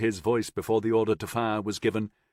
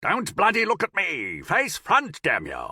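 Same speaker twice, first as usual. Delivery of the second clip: higher, harsh bawling at the men; bawled order; 8 semitones higher than usual. A narrator's reading. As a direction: bark at the soldiers with a rough edge. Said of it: "he bawled, finding a gravelly edge".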